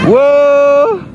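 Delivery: high startled yelp; startled whoa. Real, not acted. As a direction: yelp as the sled takes off. Sled starts sliding.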